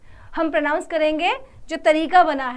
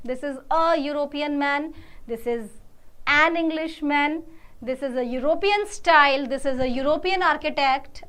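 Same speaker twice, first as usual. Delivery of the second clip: slow model sentences; much slower than usual. Shown as a demonstration. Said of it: "model sentences for class".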